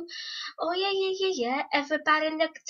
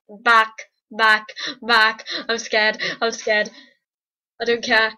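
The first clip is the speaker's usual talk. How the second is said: alarmed; 4 semitones lower, 6 dB louder than usual. Acted. Retreating in fright.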